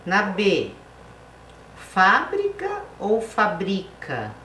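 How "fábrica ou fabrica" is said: "fábrica" on FÁ, then "fabrica" on BRI, slowly; slow classroom contrast of "fábrica" and "fabrica"; contrasting stress. Shown as a demonstration. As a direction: slowly set FÁ-brica against fa-BRI-ca. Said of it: "Quando a palavra é acentuada".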